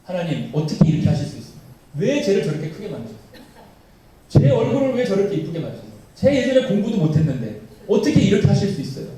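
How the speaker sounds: acted grumbling at God, rising in force; resentful protest. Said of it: "항의하고 원망하는 거예요". (원망 섞인 항의조로 따지듯)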